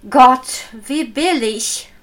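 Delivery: loud mock exclamation "Gott". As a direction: burst out Gott in mock surprise. Mock outburst at cheap price. (lautes gespieltes Gott)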